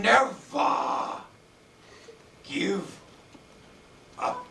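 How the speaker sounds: loud, drawn-out word by word with long pauses; each word its own weighty, ringing announcement; orator's declaration. Retold or imitated. Churchill to graduating students at the microphone, slow booming oratory. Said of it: "and he said".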